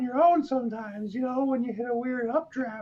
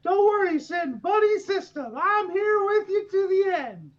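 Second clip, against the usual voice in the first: rallying shout; 5 semitones higher than usual. Acted. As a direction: call out to a friend. In-character rallying cry.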